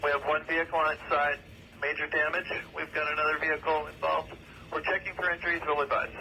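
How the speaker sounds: police radio. Real, not acted. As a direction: voice over a two-way radio. Radio traffic at crash scene.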